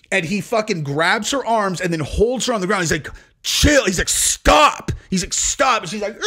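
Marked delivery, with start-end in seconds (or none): 3.4-3.8 raised, higher-pitched command; urgent retold shout; mock yell. Retold struggle, holding her down. 4.1-4.9 high, loud retold command; urgent acted yell; mock shout. Retold struggle, holding her down. 5.3-5.8 mock shout. Retold struggle, holding her down.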